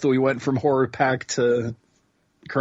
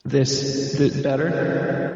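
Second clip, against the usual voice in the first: vintage echo chamber; much slower than usual. Shown as a demonstration.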